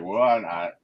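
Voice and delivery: laughing through a sheepish confession; sheepish laughing admission. Retold or imitated. Robert admitting to the team, laughing. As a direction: breaks into a laughing shout midway. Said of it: "And he's like".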